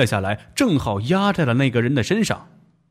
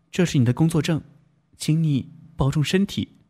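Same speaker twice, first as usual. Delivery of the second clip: gentle consoling. Acted. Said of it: "她上前劝道".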